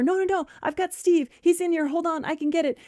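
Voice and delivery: high, insistent protest; flustered friend. Acted. Friend searching her phone for Steve's number, flustered. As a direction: fend her off in a hammed-up fluster. Acted panic over finding plumber's number.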